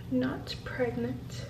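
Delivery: slow, quiet letdown; disappointed. Real, not acted. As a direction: read it out, crestfallen. Reads the result slowly.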